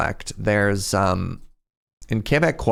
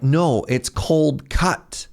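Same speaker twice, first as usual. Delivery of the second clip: slow, higher imitated teacher correction; correcting teacher; 4 semitones higher, slower than usual. Mother correcting her Italian student, slow imitated correction. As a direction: imitate a teacher slowly spelling out the right word. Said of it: "And she's like".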